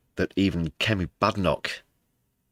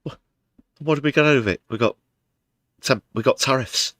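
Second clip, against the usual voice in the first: exasperated; 5 semitones higher, 6 dB louder than usual. Real, not acted. Exasperated rant about tariffs.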